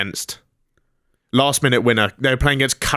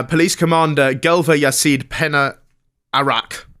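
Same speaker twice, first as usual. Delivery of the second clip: slightly lifted newsreader delivery; news read; 4 semitones higher than usual. Acted. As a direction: read the police report out to listeners. Reads out a news item.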